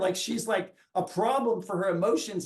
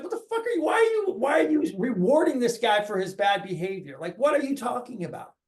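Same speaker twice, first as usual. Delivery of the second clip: indignant; 3 semitones higher than usual. Retold or imitated. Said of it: "good boy is like".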